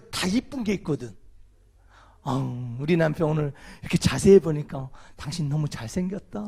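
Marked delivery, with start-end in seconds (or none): 2.2-6.4 admiring wife. Pretend. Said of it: "그렇게 한번 해줘봐요".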